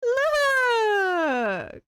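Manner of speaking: loud, high call of look; calling out to get attention; excited call. Real, not acted. Streamer calls chat to look at her creation.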